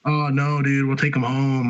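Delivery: retold placating appeal; pleading friend. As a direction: play a friend smoothing things over, pitch lifted. Acted friend talking cop round.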